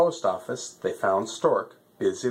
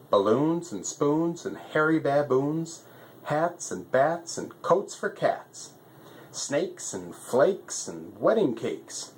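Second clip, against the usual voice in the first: lightly voiced fussy postmaster stork, pitched up; a busy bird, a bit higher than the narrator; 5 semitones higher than usual. Stork's long rhyming list.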